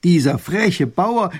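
slow loud indignant grumble; scolding. Acted. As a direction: spit out the insult. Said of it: "schimpft der kleine Großherzog".

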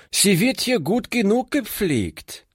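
put-on high, indignant outburst of a girl; angry cry. A narrator's reading. Girl defends her care of her sick friend, angrily crying out. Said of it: "rief sie".

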